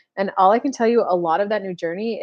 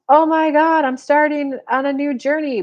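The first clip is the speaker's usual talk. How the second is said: excited rush; 6 semitones higher, 5 dB louder than usual. Retold or imitated. Imagined excited reaction.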